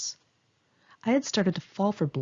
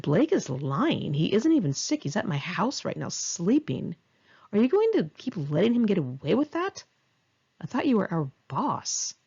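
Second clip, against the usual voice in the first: manipulative goading; 2 semitones higher than usual. Retold or imitated. Narrator goading her boss into firing Blake, lightly mocking. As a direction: stir up a boss's insecurity, lightly acted. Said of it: "played on the insecurity of my boss".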